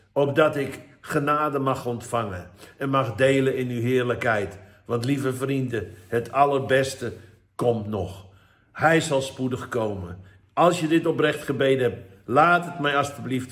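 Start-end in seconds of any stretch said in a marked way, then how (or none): 0.1-10.2 tearful. Real, not acted. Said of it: "Sorry voor mijn tranen".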